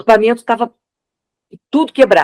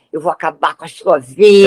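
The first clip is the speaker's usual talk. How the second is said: jealous villain voice; 2 semitones lower than usual. Retold or imitated.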